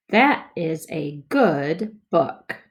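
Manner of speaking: slow, word by word; slow choppy reading. Shown as a demonstration. Teacher models first slow read for kids. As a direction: read each word apart, slowly. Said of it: "More smoothly".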